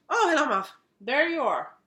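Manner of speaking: high, sing-song pet talk; cooing at the cat. Real, not acted. Greeting her cat Muff as he walks in, high cooing pet voice. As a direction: coo a greeting to your pet.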